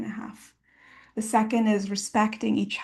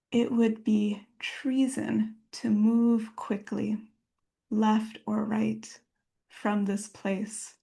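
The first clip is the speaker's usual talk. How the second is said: poem reading; slower than usual. Acted. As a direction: let each line settle, unhurried. Reads a poem aloud.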